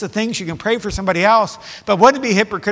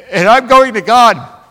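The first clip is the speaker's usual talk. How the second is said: emphatic declaration; 4 semitones higher, 10 dB louder than usual. Acted. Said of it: "Instead, I am brokenhearted".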